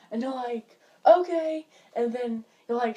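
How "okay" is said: high, loud drawn okay; placating reply. Retold or imitated. Answering relatives who barged in, high and loud. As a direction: pitch it up to brush them off.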